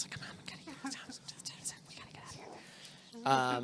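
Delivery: hushed, voiceless urging among servants; conspiratorial stage whisper. Acted. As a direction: whisper it to the others. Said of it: "they start whispering amongst the other servants".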